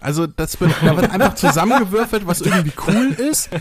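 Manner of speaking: chuckling while explaining; laughing. Real, not acted.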